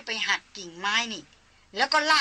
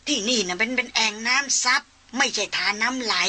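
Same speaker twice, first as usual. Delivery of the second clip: put-on old hunter; 2 semitones higher than usual. Old hunter explains the poisoned pool.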